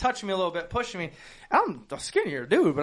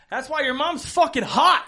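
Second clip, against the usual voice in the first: tag-along taunt; 7 semitones higher than usual. Retold or imitated. Retold trash-talk between friends.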